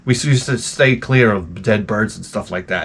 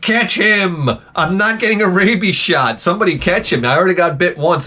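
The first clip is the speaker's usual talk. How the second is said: mock panic; 7 semitones higher than usual. Imagined panic after animal bite.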